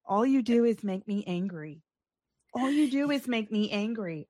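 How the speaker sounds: a hint of a calm psychopath; lightly voiced menacing kidnapper; crazy serial killer voice. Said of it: "you gotta say it correctly".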